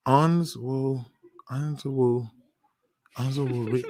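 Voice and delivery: "Onswo" tried quietly and tentatively, syllable by syllable; sounding it out. Real, not acted. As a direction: softly test "Onswo Re-", breaking off unfinished. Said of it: "I gotta think how I heard him say his name".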